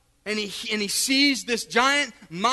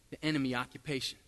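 much softer, lower ministering tone; hushed ministering; 6 semitones lower, 8 dB quieter than usual. Acted. Preacher praying softly for healing, low and soft. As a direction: speak low over the sick.

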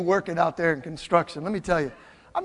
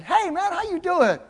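high, sing-out friendly hello; chirpy greeting; 10 semitones higher than usual. Retold or imitated. Pastor coming back to work on the worker, chirpy greeting. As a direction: call it out brightly, pitched well up.

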